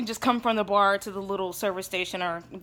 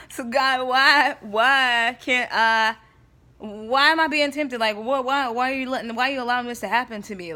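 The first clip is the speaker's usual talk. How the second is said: louder, pleading complaint to God; exasperated plea; 2 semitones higher, 5 dB louder than usual. Retold or imitated. Retelling her frustrated prayer to God, loud and pleading. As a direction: demand an answer from above, fed up.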